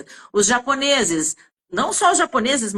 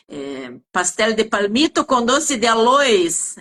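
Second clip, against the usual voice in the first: imitated Chinese accent.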